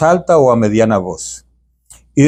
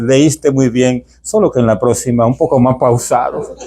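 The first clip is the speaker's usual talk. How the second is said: priest's slow advice; 2 semitones lower than usual. Retold or imitated. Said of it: "el padre ... me dice".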